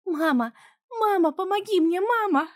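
high, loud screaming for mom; terrified child. A narrator's reading. Trapped daughter screaming for her mother, high loud. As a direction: scream for help.

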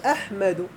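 أحمد said aḥmadu, with a after the m; correct verb vowel. Shown as a demonstration. Teacher citing the present tense as proof, correct verb vowel. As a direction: sound out أحمد as aḥ-ma-du. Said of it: "والدليل هو النصب في المضارع".

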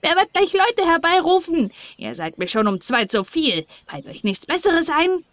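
irritated little dwarf; scolding dwarf. Acted. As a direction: snap at the children like a cranky gnome.

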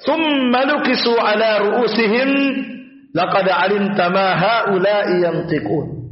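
slow, drawn-out Quran recitation; unhurried, stretched Arabic verse. Shown as a demonstration. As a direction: recite it with long, held vowels.

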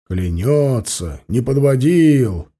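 slow, mocking angry echo; explosive rage. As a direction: spit the words back in a flare of temper. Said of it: "вспылил Баринов".

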